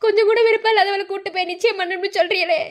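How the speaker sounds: tearful plea. Acted. Mother to her mother-in-law, tearful plea. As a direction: beg her through tears.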